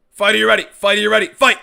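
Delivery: booming announcer call, high and loud; fighting game announcer. Pretend. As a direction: boom it out like an arena announcer. Announcer intro before fight.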